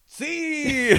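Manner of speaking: high mock shout of the crowd's answer; mock crowd reply.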